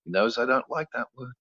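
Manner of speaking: lightly voiced mother recounting the swearing; mother's story. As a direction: tell it as a calm mom. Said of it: "And she went".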